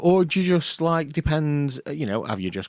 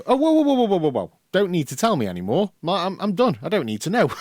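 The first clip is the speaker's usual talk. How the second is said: shocked recoil; 8 semitones higher, 4 dB louder, faster than usual. Retold or imitated. Shocked reaction retold to friend.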